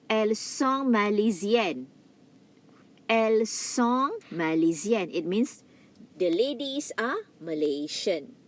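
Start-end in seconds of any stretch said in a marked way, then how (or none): 0.1-5.1 "Elles sont malaisiennes." with silent s, nasal sont; French demo. Shown as a demonstration. Teacher modelling plural feminine for the class. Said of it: "S is silent".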